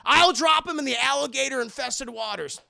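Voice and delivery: hammed-up shouted threat; mock threat. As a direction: yell it across the bridge. Redone threat louder.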